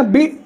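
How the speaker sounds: "बी" said short, not drawn out; unstressed बी. Shown as a demonstration. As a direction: keep "बी" brief and unstretched. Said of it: "ये नहीं खींचा".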